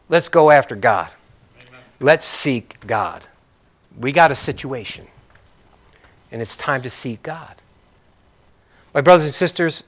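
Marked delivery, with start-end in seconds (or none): 0.1-7.5 hushed, steady invitation; calm resolve. Acted. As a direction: settle the brothers down gently. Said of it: "He said".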